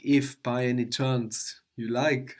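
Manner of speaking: If stressed, phrase drawn out slowly; slow phrase with If underlined; emphasis on if. Shown as a demonstration. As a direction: lean on If, then slow through by any chance. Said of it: "give this emphasis to if".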